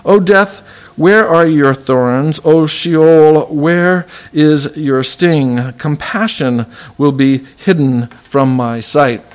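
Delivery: slow, solemn reading of the passage; preacher reading the verse aloud, solemn; scripture reading. Acted. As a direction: read it out like scripture from the pulpit. Reads Hosea passage aloud.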